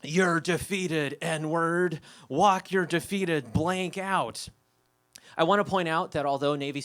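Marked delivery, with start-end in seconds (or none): 0.0-4.5 slow, mock-booming pronouncement; lightly imitated thunderous voice, drawn out; thundering baritone. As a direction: declaim it slowly like a booming voice. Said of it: "the thundering baritone voice booms out over us all".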